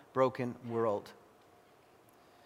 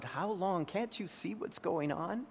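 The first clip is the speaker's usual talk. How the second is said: crying out; 5 semitones higher, 8 dB quieter than usual. Retold or imitated. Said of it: "cries out".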